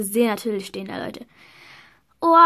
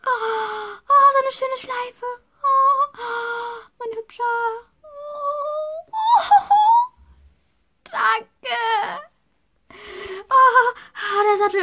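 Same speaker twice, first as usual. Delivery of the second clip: high, teary and breaking; tearful joy; 9 semitones higher, much slower than usual. Real, not acted. Greets horse, thanks parents. (weint gerührt und bedankt sich bei den Eltern)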